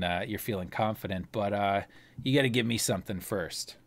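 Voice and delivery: low, soft, wary gambler; Ander voice. Acted. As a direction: murmur it like a cagey card player.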